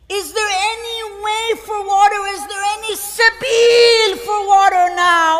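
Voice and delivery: loud, wailing, grief-stricken lament; anguished plea of a dying son. Acted. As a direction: cry out to the father as a son dying of thirst. Dying son begs his father.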